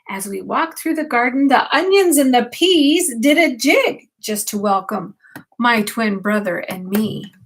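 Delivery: put-on bedtime story read to a child; reading aloud. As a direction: gently read the picture book to the grandchild. Reads picture book aloud.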